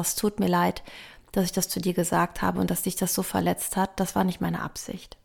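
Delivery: soft, sincere apology that fades toward a whisper. Shown as a demonstration. Parent apologizing to hurt child, soft and sincere. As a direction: say sorry gently, as a good example. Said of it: "geh mit gutem Beispiel voran und sag".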